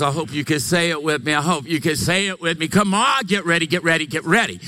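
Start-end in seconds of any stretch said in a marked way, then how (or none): 2.7-4.6 T D Jakes imitation. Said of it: "That's kind of a T D Jakes imitation".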